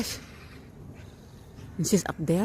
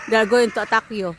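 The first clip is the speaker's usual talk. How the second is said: louder warning call; worried warning; 4 semitones higher, 8 dB louder than usual. Real, not acted. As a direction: warn her loudly about the crows. Warning cat about crows.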